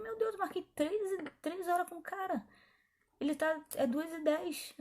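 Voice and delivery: surprised retelling. Retold or imitated. Retold alarm at early arrival.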